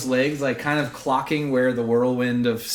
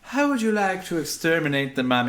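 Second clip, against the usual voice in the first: high, dramatic game master reveal; raised pitch, showy build-up; triumphant announcement; 8 semitones higher than usual. Pretend. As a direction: announce the killing blow with relish. Game master announces the killing blow.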